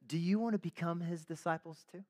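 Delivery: lightly acted cheeky question; understated snark, rising at the end; a little snarky. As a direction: needle them with a mock-innocent question. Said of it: "the man gets a little snarky".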